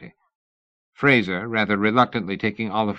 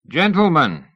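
much higher and louder, a cry from the stairs; calling out; 8 semitones higher, 6 dB louder than usual. A narrator's reading. Mister Sayers calls the gentlemen from the stairs, crying out. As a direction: call the whole company up from the stairs. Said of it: "Mister Sayers cried from the stairs".

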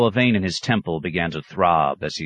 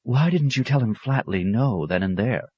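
higher-pitched fuming clerk; 6 semitones higher than usual. A narrator's reading. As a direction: let the frustration out. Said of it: "Claret fumed".

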